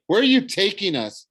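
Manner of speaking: put-on high, loud child's voice; alarmed young boy. Frightened boy questions captor.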